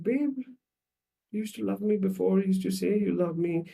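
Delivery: high-pitched, plaintive appeal; insecure wife. Acted. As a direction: complain to a partner you feel is drifting. Acted insecure wife complaining to husband.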